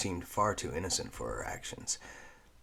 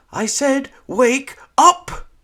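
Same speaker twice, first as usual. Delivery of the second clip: loud, high insistent yell; crying out; 18 dB louder, slower than usual. Acted. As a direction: yell to wake her. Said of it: "cried a different voice".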